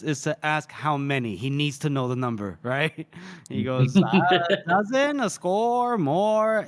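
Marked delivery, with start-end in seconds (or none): 4.0-6.6 drawn-out, louder guesswork rising in pitch; retold musing. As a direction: stretch each guess out, mock-pondering. Retold character guesses at battle count.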